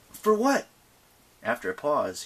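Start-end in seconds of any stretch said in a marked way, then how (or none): 0.1-0.7 unhappy grunt. Acted. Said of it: "grunted unhappily".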